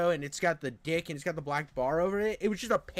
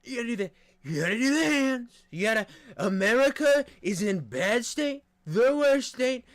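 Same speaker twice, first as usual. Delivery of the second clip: higher, hammed-up Trump voice with pauses; Trump impression; 4 semitones higher than usual. Streamer practices his Trump impression for chat, hammed up. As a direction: practice a rough Trump, selling it big. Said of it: "Yeah, Trump's hard".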